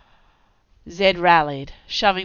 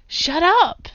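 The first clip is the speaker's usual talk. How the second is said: hissing; 12 semitones higher, 9 dB louder than usual. Acted. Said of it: "Zed hissed".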